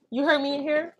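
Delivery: high sing-song question. Real, not acted. Talking to the baby.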